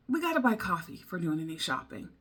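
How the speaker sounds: ordinary talk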